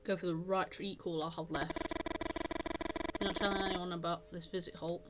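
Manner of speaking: measured story-reading voice; game narration. A narrator's reading. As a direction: read the story text aloud, evenly. Reads game text aloud.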